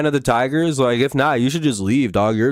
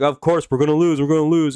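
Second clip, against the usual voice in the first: whiny fan; 5 semitones higher than usual. Retold or imitated. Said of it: "if all the Tigers fans are just like".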